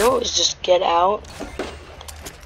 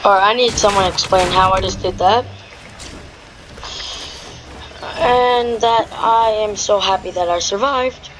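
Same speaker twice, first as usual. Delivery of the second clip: excited gamer; 2 semitones higher, 4 dB louder than usual. Real, not acted. Celebrating surviving the fight.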